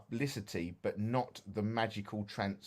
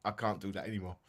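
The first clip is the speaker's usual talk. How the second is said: quiet inner voice; 4 semitones lower, 7 dB quieter, faster than usual. Retold or imitated. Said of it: "I thought".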